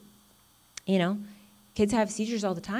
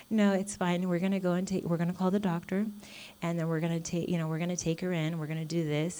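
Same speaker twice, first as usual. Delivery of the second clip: calm reassurance; 5 dB quieter, faster than usual. Retold or imitated. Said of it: "I'm like".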